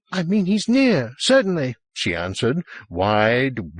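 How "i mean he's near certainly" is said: high, agitated insistence; frantic high-pitched certainty; wild-eyed. A narrator's reading. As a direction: answer wildly, pitch right up. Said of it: "wild-eyed".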